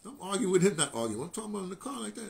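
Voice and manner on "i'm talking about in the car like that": usual speaking voice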